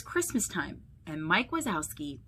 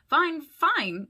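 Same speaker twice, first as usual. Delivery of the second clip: high, louder, nervous reply; nervous answer; 9 semitones higher, 6 dB louder than usual. A narrator's reading. Mike hiding trouble from best friend Sully, mildly nervous. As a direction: brush the question off a touch nervously. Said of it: "Mike answered nervously".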